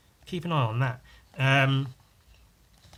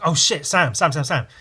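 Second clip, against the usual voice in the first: sudden attention-grabbing call, a bit higher; mock urgent calling; 3 semitones higher, 6 dB louder than usual. Interrupts his friend as if with big news, mock urgent. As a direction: blurt the name in quick mock urgency.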